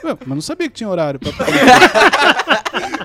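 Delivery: laughing punchline. Retold or imitated. Retelling a reply about job-hunting hours, laughing loudly. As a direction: deliver the clueless comeback, cracking up.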